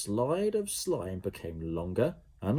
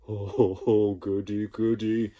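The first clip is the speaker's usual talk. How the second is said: gleeful blob; 5 dB louder than usual. A narrator's reading. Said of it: "exclaimed Slime".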